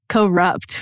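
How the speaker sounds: "Corrupt" said as two separate words, co and rupt; mimicked "Corrupt" with a split after the first syllable. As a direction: break "Corrupt" in two, imitating the odd delivery. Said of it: "it sounded like two different words".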